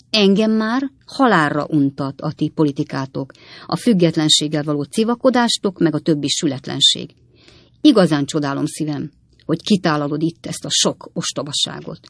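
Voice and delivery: firm, weighty wifely scolding; moderately forceful rebuke of the husband; emphatic. A narrator's reading. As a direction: press each complaint home. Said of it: "mondta Potné nyomatékos hangon".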